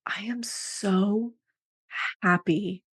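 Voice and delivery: slow, drawn-out, whispery savoring; retold blissful relief. Recalling getting into bed to sleep, slow blissful relief. Retelling relieved bedtime moment.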